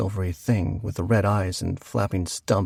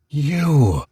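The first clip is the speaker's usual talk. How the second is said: a lightly voiced ghost wail, louder; mild ghostly wail; 4 semitones higher, 5 dB louder than usual. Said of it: "he wailed".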